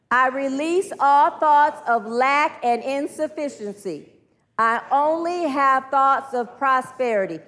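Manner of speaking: slow, deliberate group-led affirmation; measured declaration, leaning on key words; leading affirmations. Acted. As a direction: declare it slowly for a room to repeat.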